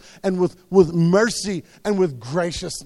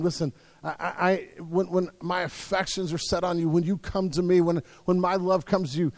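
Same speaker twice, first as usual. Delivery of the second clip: tender voice of Jesus. Acted.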